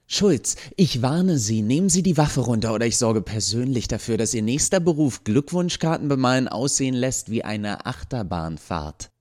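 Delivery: barking threat. Acted. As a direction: snap the threat at him. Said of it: "bellte die Stimme der Professorin".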